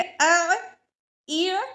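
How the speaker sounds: अ ई उ throaty, not drawn out; ain vowels demo. Shown as a demonstration. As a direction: keep the throat sound short and tight. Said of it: "ना ही फौरी पढ़ेंगे". (अ ई उ हलक से, लंबा न करके)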